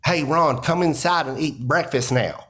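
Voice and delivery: lightly voiced Southern mom calling her son in; hint of a Southern accent, mom calling to breakfast. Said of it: "Ron White doing an accent about his mom".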